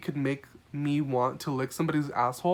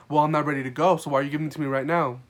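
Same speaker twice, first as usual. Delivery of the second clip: louder, fast, indignant retort; mimicking a rude customer, louder and pushier; mock indignant guest; 4 dB louder, faster than usual. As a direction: throw it back at the waitress, annoyed. Rude guest repeats his refusal.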